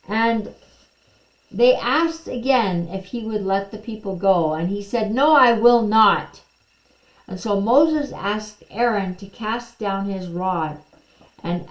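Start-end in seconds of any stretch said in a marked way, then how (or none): 5.1-6.4 a loud, blunt no; flat refusal. Acted. Pharaoh turning Moses and Aaron away, loud and blunt. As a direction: slam the door on the request.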